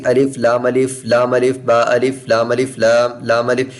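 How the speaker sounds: letter pairs rattled off quickly and carelessly; rushed wrong reading. Shown as a demonstration. Teacher demonstrating the wrong, rushed reading. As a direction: hurry through the letters. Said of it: "ऐसे गलत कहलाएंगे".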